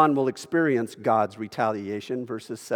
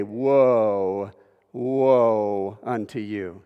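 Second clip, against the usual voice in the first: WOE held long and slow, weighty; emphatic prophetic woe; 3 semitones lower, much slower than usual. Acted. Preacher as prophets bringing judgment, "Woe" long and emphatic. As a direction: draw out each "Woe" like a prophet's warning. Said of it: "Very emphatic, extremely strong".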